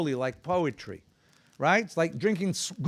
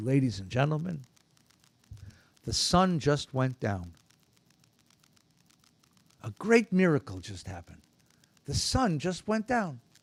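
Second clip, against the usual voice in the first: hushed, quiet stage whisper; 5 semitones lower, 4 dB quieter than usual. Acting out a small man's words to his audience, imitating a half-whisper. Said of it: "and he'd whisper".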